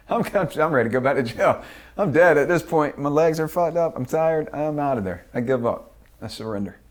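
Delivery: loud, high, exasperated outburst; giving up. Retold or imitated. Telling the host he's ready to surrender, loud and exasperated. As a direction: throw up your hands, done with it all.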